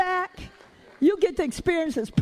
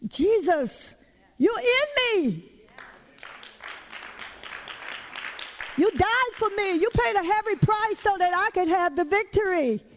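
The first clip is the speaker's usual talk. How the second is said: fervent prayer; 3 semitones higher than usual. Pretend. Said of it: "pull up".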